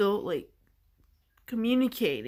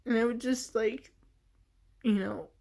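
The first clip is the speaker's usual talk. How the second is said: choked up, higher and fighting tears; getting emotional; 3 semitones higher than usual. Real, not acted. Telling a listener about a lost inner voice, choked up. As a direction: voice rising and thinning as tears come. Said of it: "just automatically getting emotional".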